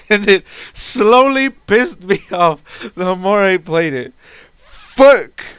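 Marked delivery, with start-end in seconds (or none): 4.6-5.4 loud exasperated curse; frustrated yell. Real, not acted. Cursing at the dice roll, loud frustrated yell. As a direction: spit it out in frustration. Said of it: "I'm fucking yelling at this point".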